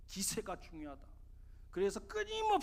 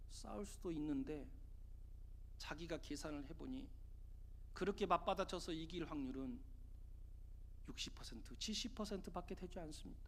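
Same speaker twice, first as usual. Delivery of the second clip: soft, much quieter, steady and humble; quiet calm reply; 5 semitones lower, 11 dB quieter than usual. Retold or imitated. Pupil answering his angry teacher, quiet and humble. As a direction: answer the angry master softly, almost whispering at the end.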